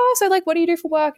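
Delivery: high, quick, eager question; friendly and bubbly. Retold or imitated. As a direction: play the keen date making small talk. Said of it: "being super friendly and accommodating and bubbly".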